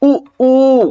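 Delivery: ऊ said twice with the mouth barely open; showing ऊ with little mouth opening; close vowel demo. Shown as a demonstration. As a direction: tight lips on ऊ, ऊ. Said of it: "बहुत कम मुंह खुला".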